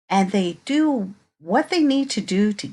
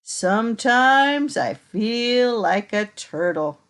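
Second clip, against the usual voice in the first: put-on reading to children. Reading picture book to children.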